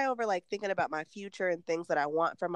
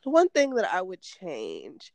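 hiccupping while talking; with hiccups; 3 semitones higher, 3 dB louder, slower than usual. Real, not acted. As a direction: talk through the hiccups. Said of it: "I got the hiccups".

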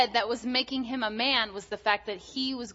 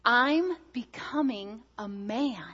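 put-on proud little boy; 3 semitones higher, slower than usual. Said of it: "he was thrilled about this whole idea".

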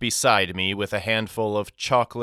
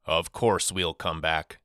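lower, softer gentle reassurance; reassuring; 5 semitones lower, 4 dB quieter than usual. Acted. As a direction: soothe the worried boy softly. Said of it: "he assured me".

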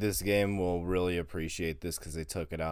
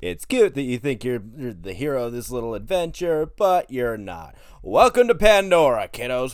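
Handsome Jack; 5 dB louder than usual. Acted.

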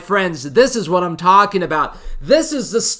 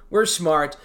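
lower, softer repeat of the boast; low quiet echo; 5 semitones lower, 5 dB quieter than usual. Acted. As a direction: mutter it back to yourself.

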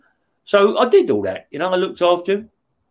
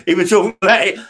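a quick laugh through the words, a bit faster; 4 semitones higher, 5 dB louder, faster than usual. Real, not acted. Laughing off tears while telling the host. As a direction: laugh it off, slightly hurried.

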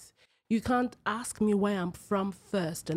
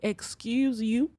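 slow, higher offended question; indignant; 4 semitones higher, much slower than usual. Retold or imitated. African woman answering a colleague's ignorant remark, indignant. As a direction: stretch it out in affronted disbelief.

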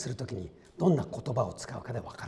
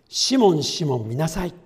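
urgent call; 4 semitones higher, 9 dB louder than usual. Acted. Jesus calling Simon in scripture.

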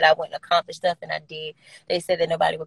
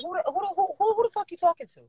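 high, fast, combative "who the fuck"; aggressive voice; 11 semitones higher than usual. Retold or imitated. Imitating her own confrontational side for a fan. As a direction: snap it out like picking a fight. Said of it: "four different voices".

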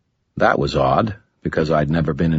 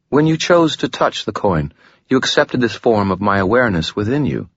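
lightly voiced woman, higher, smooth and composed; a hint of a calm, alluring woman, higher; Lashiel, gracious demon; 5 semitones higher than usual.

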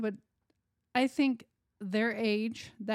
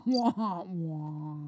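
muffled wah wah talk; 6 semitones lower than usual. Pretend. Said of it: "I like the wah".

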